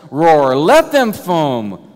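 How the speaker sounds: loud, slow, ringing declaration; proclaimed defiantly. Acted. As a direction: thunder each "let" out like a challenge. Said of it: "if I were to translate it more literally".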